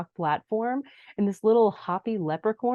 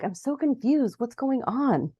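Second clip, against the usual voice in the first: high-pitched, bewildered character quote; higher voice, playing confused; mock confusion; 5 semitones higher than usual. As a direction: imitate someone totally lost. Acted bewildered Jenny.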